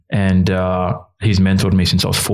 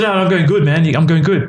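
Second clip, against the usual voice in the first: much higher, over-bright mock reassurance; faked cheerfulness; 9 semitones higher than usual. Struggling man answering his mentor's call, falsely cheerful. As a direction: act out pretending all is well, pitched right up. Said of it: "I just couldn't fake it anymore".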